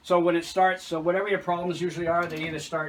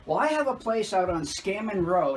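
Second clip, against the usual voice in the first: lightly voiced caller; 5 semitones higher, 3 dB louder than usual. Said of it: "And she goes".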